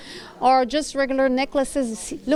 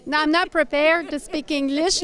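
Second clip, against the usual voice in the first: laughing; 3 semitones higher than usual. Real, not acted. Caught off guard, laughs through English.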